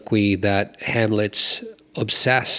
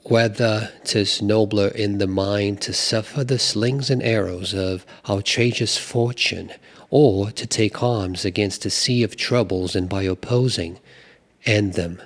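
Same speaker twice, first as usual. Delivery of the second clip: put-on British accent. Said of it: "I tried some British accent there".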